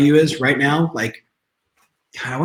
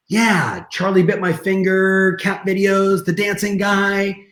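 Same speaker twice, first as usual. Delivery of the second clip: higher, drawn-out list of silly examples; mild mock enthusiasm; 4 semitones higher, slower than usual. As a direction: reel them off in a raised, level sing-song. Recalls scoffing at YouTube back then.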